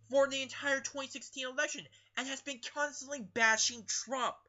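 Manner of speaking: talking with food in mouth; mouth full. Real, not acted. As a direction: speak through a mouthful. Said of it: "Sorry, I have something in my mouth".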